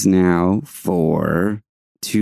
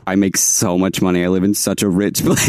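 mock bragging; 2 semitones lower than usual. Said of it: "No, I'm just kidding".

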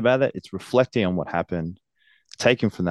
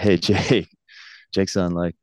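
put-on Japanese accent; 2 semitones higher than usual. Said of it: "I shouldn't do the accent".

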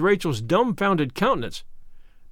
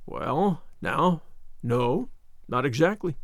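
softer, hesitant and uneasy; 3 semitones lower, 4 dB quieter, slower than usual. A narrator's reading. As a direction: hedge nervously, backing off. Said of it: "said Matthew uneasily".

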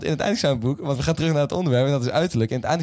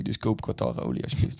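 whispered; 2 semitones lower, 5 dB quieter than usual. Pretend. Mock ad whisper.

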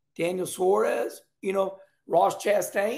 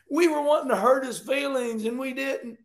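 higher-pitched imitation of sore fans; mock whining fans; 4 semitones higher than usual. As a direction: whine it like a disappointed crowd, mocking. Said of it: "the fans are like".

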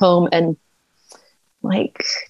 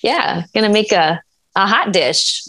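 put-on Wisconsin accent. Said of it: "the accent".

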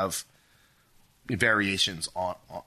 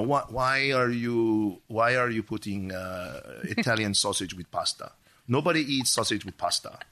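put-on Italian accent; slower than usual. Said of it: "That's a good Italian accent".

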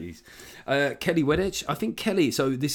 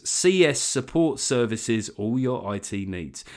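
bad ad read; slower than usual. Real, not acted. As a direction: labour through the advert slogan, slowly. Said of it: "hearing how badly I read a company name".

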